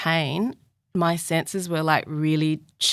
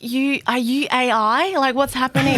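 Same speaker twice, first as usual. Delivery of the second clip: bewildered; 9 semitones higher, 5 dB louder than usual. Retold or imitated. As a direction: ask as if the stewardess were a robot. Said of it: "I was like".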